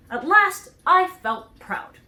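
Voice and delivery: "proud" drawn out high and loud, slow. A narrator's reading. The Scarecrow recalls being finished, slow and proud. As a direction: swell with pride on "at last I felt proud".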